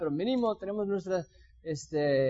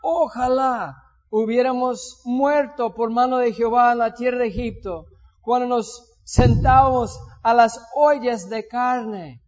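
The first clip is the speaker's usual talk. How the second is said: complaining Israelites; 2 semitones higher, 6 dB louder than usual. Retold or imitated. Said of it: "Y les decían los hijos de Israel". (los hijos de Israel se quejan a Moisés en voz alta y lenta)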